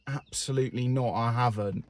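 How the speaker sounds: soft, understated retort; deadpan reply. Retold or imitated. Replying to a colleague about family shoots, quietly deadpan. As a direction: drop the voice for a dry no.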